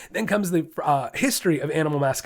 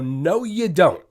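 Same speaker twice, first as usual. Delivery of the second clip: mock scream; 4 semitones higher, 4 dB louder, much slower than usual. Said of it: "I just wanna scream".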